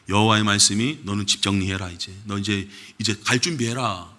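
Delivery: a hint of a solemn prophet; prophet's grave message. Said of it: "그래서 선지자한테 얘기합니다".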